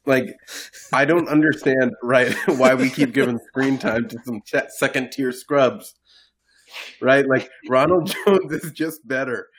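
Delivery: a little tipsy, giggling mid-sentence. Real, not acted. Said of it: "I'm sorry, I'm a little tipsy".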